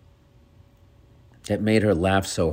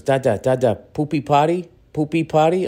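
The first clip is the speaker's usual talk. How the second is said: put-on higher, eager toddler voice; toddler son; 9 semitones higher, 3 dB louder than usual. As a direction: imitate a little kid asking, pitched up. Voicing his toddler son stalling bedtime.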